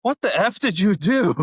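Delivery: high, loud, incredulous; captain can't believe you're a private; shocked disbelief. Retold or imitated. Captain to old classmate, high loud shocked disbelief. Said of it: "And he's like".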